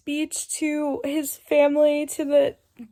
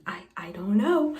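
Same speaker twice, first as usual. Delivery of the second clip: whispered; 3 semitones lower than usual. Real, not acted. Overwhelmed by the book's plot.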